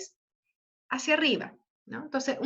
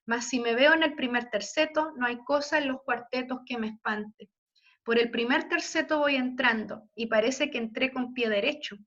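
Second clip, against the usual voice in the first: poem recitation. Acted. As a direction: recite it like a melancholy poem for the class. Reads Lope sonnet aloud.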